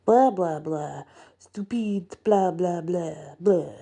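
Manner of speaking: lightly voiced grumbling cab driver; half-hearted grumbled gibberish; mock grumbling. A narrator's reading. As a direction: grumble it under your breath like an annoyed old cabbie. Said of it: "Gustav grumbles something that sounds like".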